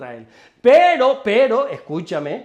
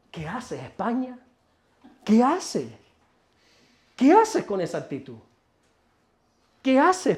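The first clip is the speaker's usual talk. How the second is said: mocking God; 4 dB quieter than usual. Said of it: "se ríe y dice".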